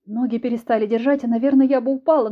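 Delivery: ordinary delivery, nothing marked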